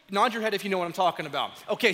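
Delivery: usual speaking voice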